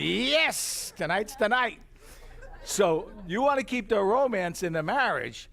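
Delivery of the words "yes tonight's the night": excited husband. Retold or imitated. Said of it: "So he's excited".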